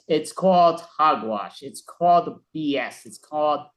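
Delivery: slow, scornful put-down; dismissive. Acted. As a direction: brush it off with contempt. Secretary dismisses apps.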